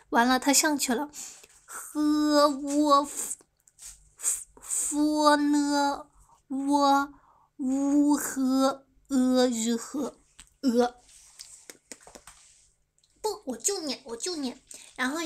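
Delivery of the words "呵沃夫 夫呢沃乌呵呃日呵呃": 呵沃夫 and 夫呢 drawn out as level pinyin sounds; Chinese-style spelling. Shown as a demonstration. Streamer keeps demonstrating the Chinese reading, 乌呵呃日呵 in stretched pinyin. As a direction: sound out 乌呵呃日呵 very slowly, syllable by syllable. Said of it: "我念中国的哈".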